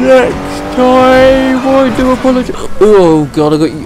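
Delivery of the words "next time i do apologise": high, loud hiccupping yelp; hiccups. Real, not acted. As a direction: hiccup breaks the words. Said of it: "yawn and have hiccups".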